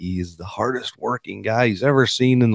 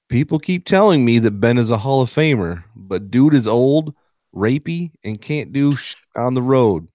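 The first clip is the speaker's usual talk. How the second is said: raised-pitch dramatic quote reading; Antonio Brown; 5 semitones higher than usual. Acted. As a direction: read out a ranting athlete's quote, barely holding back amusement. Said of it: "Here is Mister Big Chest on Ben Roethlisberger".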